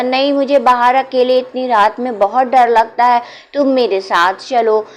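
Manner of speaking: put-on a child afraid of the dark; scared child. A narrator's reading. Frightened child begs Muniya to come outside, high and pleading. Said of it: "तो वो बच्चा बोला".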